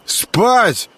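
put-on high, slow, slurred drunken glee; barely able to move his tongue; drunk slurring. A narrator's reading. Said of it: "едва ворочал языком Грехвост".

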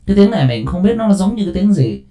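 hollow pipe voice effect; through a PVC pipe. Shown as a demonstration. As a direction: speak as into a plastic tube. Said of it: "giống như là cái tiếng nói vào trong ống P V C".

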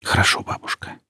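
soft unvoiced whisper. A narrator's reading. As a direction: whisper it gently to grandma. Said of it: "прошептала она".

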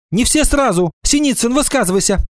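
brisk, high-pitched command; ordering. A narrator's reading. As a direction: take charge of an unruly class. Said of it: "приказала Ира Сыркина". (приказным тоном, высоко)

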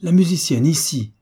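a cry of furious astonishment; shocked villain exclaiming; surprised and angry. A narrator's reading. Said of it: "il s'écria, non moins surpris et courroucé".

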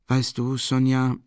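a burst of eager enthusiasm. Acted. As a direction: lit up, eager to tell her. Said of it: "mit einer Art Begeisterung".

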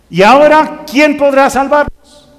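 high, loud mock-desperate cry; lightly acted cry for help; hammed-up plea for rescue. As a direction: call out for a rescuer, theatrically. Dramatic quote of desperate cry.

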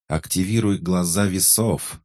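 urgent cry. A narrator's reading. Alice urging Archie facing the monster, an urgent cry. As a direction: cry out the order fast. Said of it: "вскрикнула Алиса".

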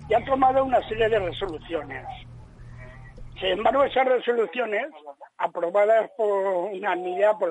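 phone-line caller; telephone-filtered voice; over the phone. Real, not acted. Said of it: "tenemos una llamada de un oyente".

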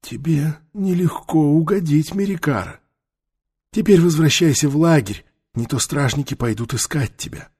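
неторопливый голос мудрого старца; спокойный старик-наставник; голос старого мага. A narrator's reading. Таита's voice. (лёгкий голос старого мага)

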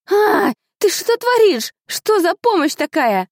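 high, loud spluttering outrage; slow indignant yelp, soaking wet; sprayed with water. Acted. (возмущённо, отплёвываясь от воды)

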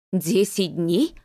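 slow gasped question; gasping surprise. Acted. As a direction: gasp it out in disbelief. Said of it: "ахнула женщина".

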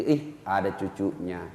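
low, faint murmur; dying grandfather weakly noticing the grandchild. Retold or imitated. Dying man sees grandchild. (suara lirih kakek sekarat)

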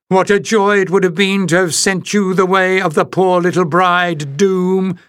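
put-on high croaking old witch; croaking hag. A narrator's reading. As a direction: croak it out with spite. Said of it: "she croaked".

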